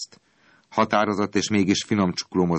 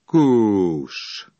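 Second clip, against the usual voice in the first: urging shout; 3 semitones higher, 4 dB louder than usual. A narrator's reading. Driver urges horse to move.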